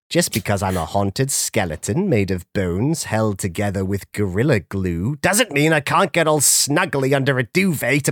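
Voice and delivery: lightly voiced spooky skeleton; a hint of a theatrical ghoul. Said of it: "Doctor Ichabod Spooky von Wolf Howlington".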